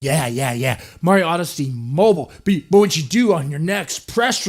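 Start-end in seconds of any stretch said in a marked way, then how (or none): none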